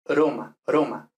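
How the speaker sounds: Roma with one tap on the r; Italian tapped r; Italian single R. Shown as a demonstration. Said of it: "la R al principio de palabra es simple".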